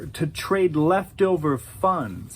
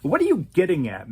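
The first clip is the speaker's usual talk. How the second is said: feigned confusion; 3 semitones higher, much faster than usual. Acted. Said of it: "Patrick pretended to be confused".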